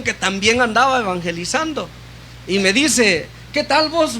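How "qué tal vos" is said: higher-pitched imitation of Guatemalan voseo; retold greeting with a Guatemalan lilt; Guatemalan chapín accent. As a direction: lightly mimic a young chapín's greeting. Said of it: "achapinado, lo escuché".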